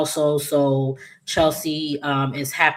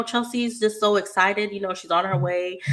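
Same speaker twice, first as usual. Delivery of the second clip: a bit higher, sugary put-on gush; lightly voiced gushing Naomi; 5 semitones higher than usual. Naomi stalling her dad, lightly voiced gushing. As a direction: gush with a touch of fake sweetness.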